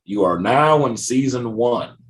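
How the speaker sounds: flat, bored game announcer; stale announcer voice. Retold or imitated. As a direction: read it like a tired in-game announcer. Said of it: "you hear that one stale announcer voice".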